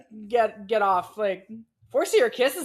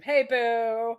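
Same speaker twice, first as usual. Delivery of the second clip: lightly voiced Aether Core; 3 semitones higher than usual. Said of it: "I'm imagining how Silas's talks to him".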